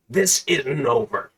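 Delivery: slow, grudging villain threat; slow, menacing villain line; defeated threat. Acted. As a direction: spit it out as a sore loser.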